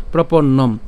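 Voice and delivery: "প্রপন্নম" ending on a closed m, propon-nom; emphatic propon-nom for "প্রপন্নম"; half-pronounced final m. Shown as a demonstration. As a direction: land firmly on "প্রপন্নম", no vowel after the m. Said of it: "অর্থাৎ অর্ধেক উচ্চারণ হবে".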